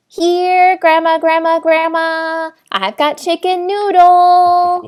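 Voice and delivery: sing-song luring call; coaxing call. Acted. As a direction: lightly call out to coax someone over. Player coaxes Grandma away with soup.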